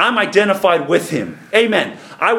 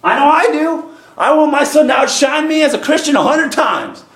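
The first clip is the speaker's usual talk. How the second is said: higher, impassioned pulpit voice; fervent preaching; 4 semitones higher than usual. Real, not acted. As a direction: testify with fervor to the church. Preaches with rising fervor.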